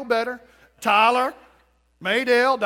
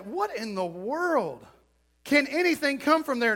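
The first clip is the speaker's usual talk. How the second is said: mild disbelief; 3 semitones higher than usual. Retold or imitated. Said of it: "He's like".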